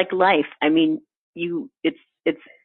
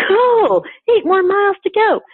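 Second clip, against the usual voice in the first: chirpy marathoner; 5 dB louder than usual. Retold or imitated. Marathoner's upbeat inner voice.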